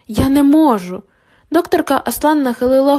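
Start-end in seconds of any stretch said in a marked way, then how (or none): 0.1-1.0 panicky. Acted. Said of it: "але впоралася лише з панікою".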